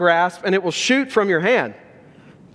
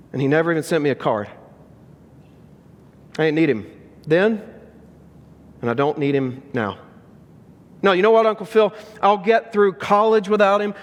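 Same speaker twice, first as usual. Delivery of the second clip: hurt defiance fading; 2 semitones higher than usual. Retold or imitated. Will's hurt tirade, then fading.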